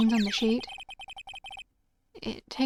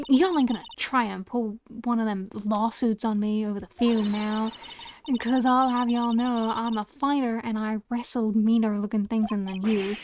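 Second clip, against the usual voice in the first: lightly played indignant Southern woman; half-hearted Southern accent. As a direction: attempt a country Southern twang, exasperated. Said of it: "you're getting a half-assed accent from me".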